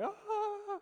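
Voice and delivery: high shrill mock shriek; mock scream. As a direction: squeal like the panicked family. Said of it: "They were like".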